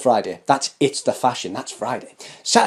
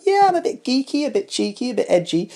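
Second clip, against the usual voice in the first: much higher, playful put-on fan voice; imitating a cheeky fan; 8 semitones higher than usual. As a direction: mimic a sassy viewer owning it. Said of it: "if you're about".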